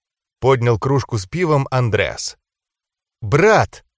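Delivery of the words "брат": one-word mild rebuke; reproachful. A narrator's reading. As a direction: call out with a touch of reproach. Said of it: "в голосе Адды вновь слышался укор". (с лёгким укором)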